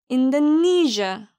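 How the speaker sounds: 인도네시아 as "in-duh-NEE-zhuh", stress on NEE; repeat-after-me model of 인도네시아, stressed third syllable; pronunciation drill. Shown as a demonstration. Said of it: "그럼 같이 발음해 볼까요".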